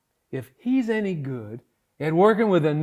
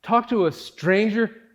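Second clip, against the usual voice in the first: panicked disbelief; 9 dB louder than usual. Real, not acted. Panicking after the call.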